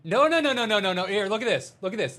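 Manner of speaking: high, loud, laughing protest no-no-no; indignant denial. Real, not acted. Anchor to co-host who asked about a clip-on, high loud indignant denial. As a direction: protest loudly, voice jumping up in mock outrage. Denies wearing a clip-on tie.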